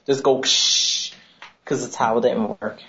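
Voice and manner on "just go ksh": breathy hand dryer hiss, slowly; blower noise. Retold or imitated. Describing the bathroom hand dryer, imitated whoosh. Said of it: "that blower they have".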